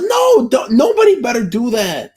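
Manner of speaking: nobody better dare; mock outraged shout. Streamer to chat about a meme, mock outraged shout.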